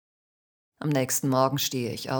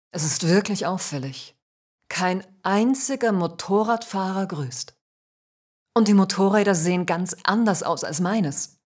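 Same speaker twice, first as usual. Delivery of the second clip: eager, tumbling-out talk, a touch louder; beaming chatter; 3 dB louder than usual. Acted. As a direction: babble on, glad she came. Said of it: "strahlt mich Manfred an und plappert drauf los".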